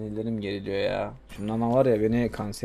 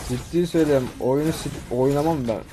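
angry vow. Real, not acted. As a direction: swear you will quit the game. Threatening to quit game.

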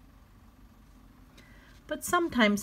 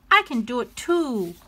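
put-on eager toddler; 6 semitones higher, 5 dB louder than usual. Flop insisting he can.

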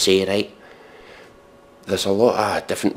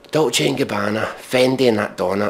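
deadpan lyric reading; 3 semitones higher than usual. Pretend. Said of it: "I think I'm gonna read the lyrics out".

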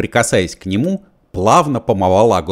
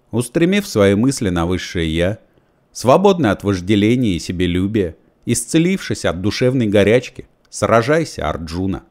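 with expression; 2 semitones higher than usual. A narrator's reading. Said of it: "произнёс с выражением".

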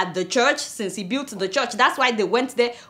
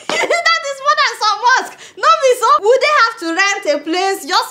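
laughing; 8 semitones higher, 4 dB louder than usual. Real, not acted. Joking about huge staff.

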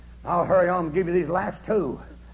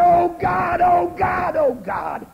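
loud, high cry to God; 8 dB louder, slower than usual. Retold or imitated. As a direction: wail it like a frightened sinner. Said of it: "we'd been a screaming and a crying".

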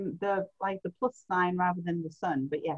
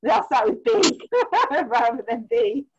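amused repeat; 2 semitones higher, 5 dB louder than usual. Real, not acted. Repeating a contestant's joke.

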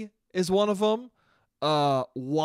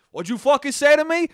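mock outraged tough guy; 8 semitones higher, 5 dB louder than usual. Cuomo voiced reacting to insult.

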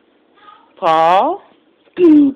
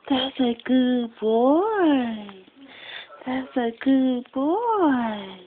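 slow, softer hushed praise; 7 dB quieter, slower than usual. Real, not acted. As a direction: soothe the puppy gently. Soothing the dog.

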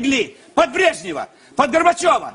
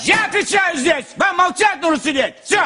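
raised, higher shouting voice; shouting match; 4 semitones higher than usual. Real, not acted. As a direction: shout her down. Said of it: "Не ори на меня".

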